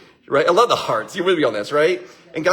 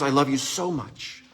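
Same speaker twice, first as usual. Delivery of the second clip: sincere; 2 semitones lower, 4 dB quieter, slower than usual. Shown as a demonstration. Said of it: "'Cause the answer is".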